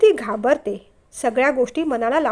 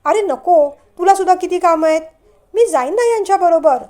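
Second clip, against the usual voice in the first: a quick, eager reply; 5 semitones higher, 5 dB louder than usual. A narrator's reading. Bride quickly turning down brother-in-law's offer, fast. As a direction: jump in fast to stop him. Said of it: "ती पटकन म्हणाली".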